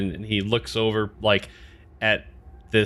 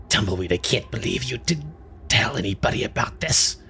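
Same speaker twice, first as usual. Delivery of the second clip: mild big-sister scolding; big sisterly. Acted. Young lizardfolk to Tumbleweed for telling nobody, big-sisterly chiding. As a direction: chide him lightly, like an older sister. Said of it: "like, big sisterly".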